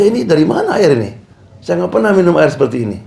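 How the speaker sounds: amazed king. Retold or imitated.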